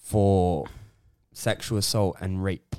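low, soft, slow and halting; serious. Real, not acted. Host announcing a footballer's arrest, solemn. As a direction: deliver grave news slowly and quietly. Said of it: "Serious time".

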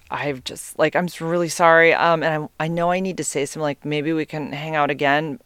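mumbled, noncommittal retold excuse; half-hearted apology. Leaving a date's house, half-heartedly suggesting another meeting. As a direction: apologize without really meaning it. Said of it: "I'm so half-heartedly saying that".

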